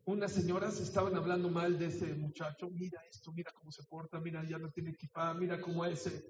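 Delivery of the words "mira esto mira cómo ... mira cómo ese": gossiping. Acted. Gossiping ladies whispering about boy.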